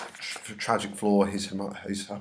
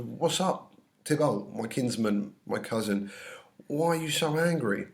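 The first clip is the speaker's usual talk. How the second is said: Capulet paraphrase; 3 semitones higher than usual. Acted.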